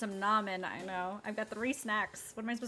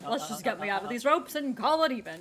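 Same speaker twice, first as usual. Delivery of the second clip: put-on folksy old man voice; 3 semitones higher, 6 dB louder than usual. Tolliver sweet-talks the kids.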